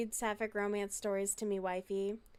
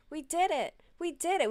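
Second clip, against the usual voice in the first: cheering; 8 semitones higher, 5 dB louder than usual. Real, not acted. Found the book, cheering.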